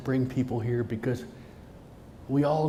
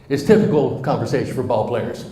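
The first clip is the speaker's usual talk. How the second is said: said again much louder, stress on typical; louder repeat; 3 semitones lower, 6 dB louder than usual. Shown as a demonstration. Speaker to audience, repeating the aside loudly. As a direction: belt typical out so everyone hears. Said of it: "Did you hear that?".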